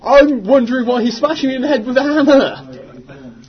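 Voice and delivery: mock outrage. Player protests, mock outrage.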